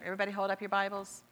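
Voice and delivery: quick, level congregational recitation; imitating a rote group confession, all on one note; recited confession. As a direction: rattle off a creed learned by rote. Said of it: "Pastor has us do that confession".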